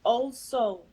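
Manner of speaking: spoken-word poetry, measured and rhythmic; poem recital. Acted. Poet reciting her own verse at the reading, spoken-word style. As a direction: deliver each line like a performance poem.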